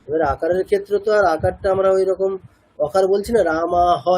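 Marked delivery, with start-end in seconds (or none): 3.5-4.0 "রামা হ" ending in "হ" instead of "হা"; wrong short a. Shown as a demonstration. Teacher showing what is not said, "রামা হ" with bare হ. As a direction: end on a bare "হ", no long aa. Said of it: "এরকম তো বলছি না, আকারই বলছি".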